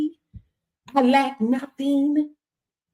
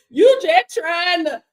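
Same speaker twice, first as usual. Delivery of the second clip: mock complainer; 5 semitones higher, 8 dB louder than usual. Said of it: "when y'all be telling people".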